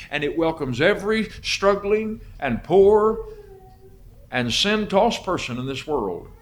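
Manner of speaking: rising sermon cadence, building to full force; preaching. Acted. Pastor urging the congregation toward heaven's gate, fervent preaching. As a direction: preach it home with swelling conviction.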